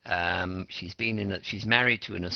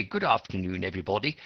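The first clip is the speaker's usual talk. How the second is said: proper greeting; faster than usual. Shown as a demonstration. Teacher contrasts formal English with slang, proper greeting. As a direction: sound correct and polite. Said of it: "that's very proper".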